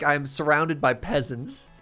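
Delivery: slow, haughty mock-aristocrat sigh; mom's dramatic complaint. Daughter imitating her mom's snobbish lament in Venice. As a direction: play the snobbish heartbroken mom. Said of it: "She's like".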